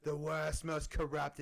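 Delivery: lightly hammed-up politician impression; badly faked presidential accent; Donald Trump. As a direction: have a half-hearted go at a bad presidential impression. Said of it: "such a bad Donald Trump accent".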